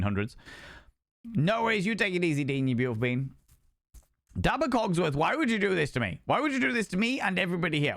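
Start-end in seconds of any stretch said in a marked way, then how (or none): 4.4-7.9 mock dismay. Mock reproach to viewer Dabba.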